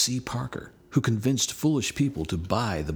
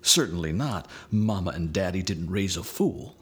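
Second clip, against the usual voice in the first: put-on imagined child's answer; 3 semitones lower than usual. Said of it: "I hope you answer".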